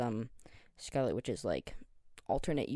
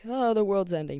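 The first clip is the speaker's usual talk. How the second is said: higher, louder mock despair; mock panic; 7 semitones higher, 7 dB louder than usual. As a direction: ham up the end of the world, half-joking. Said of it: "type of stress".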